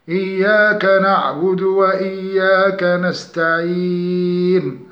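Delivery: slow melodic tajweed chant; Quranic recitation. Shown as a demonstration. Tajweed teacher reciting an example verse slowly.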